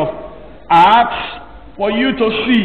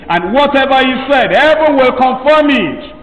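higher, ringing preacher's lift; preaching at full force; 5 semitones higher than usual. Acted. Preacher proclaiming to the congregation, raised. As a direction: lift it up for the church.

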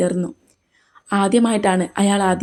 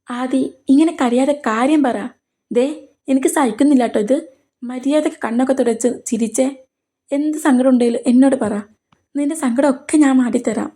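higher, coaxing and tender; tender concern; 4 semitones higher than usual. Acted. Karthi begs crying Aadi to tell him, tenderly. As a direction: soothe her like someone dear.

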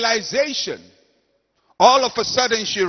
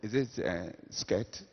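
mock flattery; 5 semitones lower, 6 dB quieter than usual. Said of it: "somebody looks at you and says".

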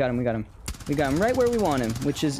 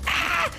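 high scream. Real, not acted.

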